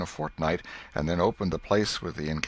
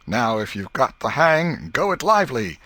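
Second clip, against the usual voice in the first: urging shout; 6 semitones higher, 7 dB louder than usual. Acted. Tom urging mid-fight.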